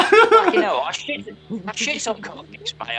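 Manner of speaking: loud laughing curse that settles into a chuckle; laughing protest. Real, not acted. Denies being a Cockney, laughing.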